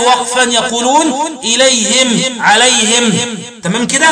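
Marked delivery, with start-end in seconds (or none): 1.4-3.1 "إليهم، عليهم" ending in -him; kasr ha, silent-vowel mim. Shown as a demonstration. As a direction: close both words on a still m after "hi". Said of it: "وقرأ بإسكان الميم وكسر الهاء وقفا".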